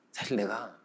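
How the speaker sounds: low, hushed, slow admission; quiet elder confiding; kindly master. Retold or imitated. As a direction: gently reveal it in a soft low voice. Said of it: "그 주인 어른이 이렇게 말을 하는 거예요".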